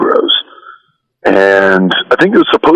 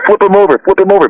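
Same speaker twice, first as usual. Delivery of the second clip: retold yell; 9 semitones higher, faster than usual. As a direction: urge the move like a frantic tag partner mid-match. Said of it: "he's yelling at me in German".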